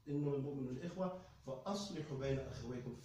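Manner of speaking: very fast, measured Arabic recitation; quranic recitation. Acted. Preacher recites the verse to the brothers in Arabic.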